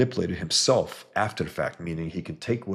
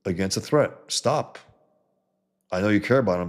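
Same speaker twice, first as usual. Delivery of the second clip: fed-up, raised-pitch "enough already" delivery; exasperated retort; 3 semitones higher than usual. Retold or imitated. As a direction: act out being fed up with weepy characters. Retold exasperated retort to TV characters.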